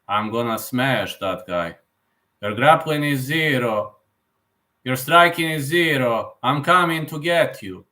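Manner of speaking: slow, deliberate fighter's threat; lightly voiced fighter, measured and slow; Khabib impression. Streamer showing another impression, a fighter threatening his opponent, slow mimicry. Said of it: "like, for example, Khabib".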